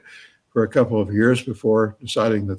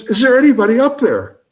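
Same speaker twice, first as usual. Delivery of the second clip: high, louder call up the well; yelling up; 12 semitones higher, 7 dB louder than usual. Acted. Man in the well calling again, louder yell. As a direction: bellow up for rescue. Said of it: "He yells".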